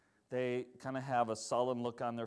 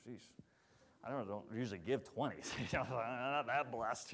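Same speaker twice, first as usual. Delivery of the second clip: laughing self-mock; 4 semitones lower, 8 dB quieter than usual. Joking inner reluctance.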